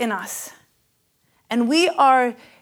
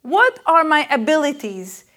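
pitched up, searching questions; eager questioning; 4 semitones higher, 5 dB louder than usual. Retold or imitated. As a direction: voice the seeker's longing. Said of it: "And everybody wants it".

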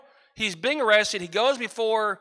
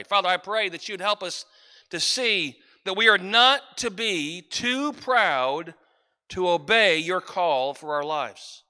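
prayer. Acted. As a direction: pray over the congregation, building then settling. Leads the congregation in prayer.

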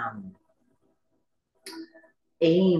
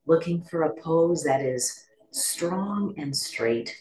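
calm meditation guide with long pauses; guided meditation. Acted. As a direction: guide listeners gently into stillness, leaving space between phrases.

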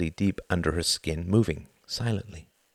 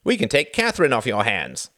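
slightly raised cheery offer; smiling; 4 semitones higher, 4 dB louder than usual. A narrator's reading. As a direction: offer help with a smile. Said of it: "smiled Reginald".

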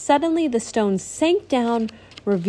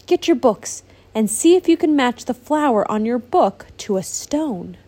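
eager instruction; 3 semitones higher, 4 dB louder than usual. Acted. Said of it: "exclaimed Genevieve".

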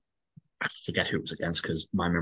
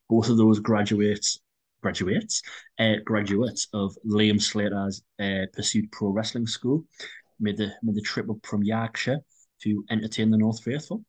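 put-on Yorkshire accent. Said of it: "Was that your Yorkshire accent?".

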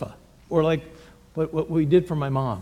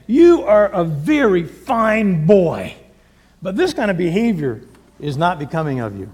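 gentle fatherly correction; 3 dB louder than usual. Retold or imitated. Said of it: "Picture a father disciplining his son".

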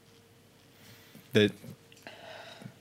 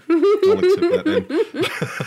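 high, slow laugh through the words; 7 dB louder, much slower than usual. Real, not acted. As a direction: laugh it out while talking.

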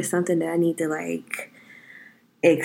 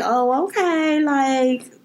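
mock shocked reaction; 5 semitones higher, much slower than usual. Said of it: "they'll be like".

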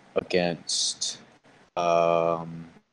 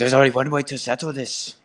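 mock tough guy; 6 semitones higher than usual. Voicing Sam Hyde's challenge.

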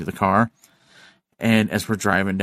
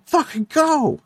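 panicked friend demanding they speed off; urgent shout; slower than usual. Retold or imitated. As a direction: bark it at the driver to floor it. Friend urging driver to flee.

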